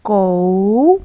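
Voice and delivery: loud, drawn-out कौ for the class; model syllable कौ. Shown as a demonstration. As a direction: say कौ clearly so the children repeat. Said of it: "एक बार फिर से बोलिए". (ज़ोर से साफ़ "कौ" बोलकर दिखाना)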